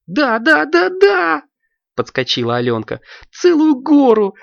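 high, squeaky and excited; a high child's voice begging to order fast; eager little girl. Acted. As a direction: bounce with impatience for ice cream.

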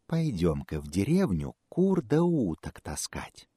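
slow, sly tempting fox. Acted. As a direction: lure him slowly, slyly.

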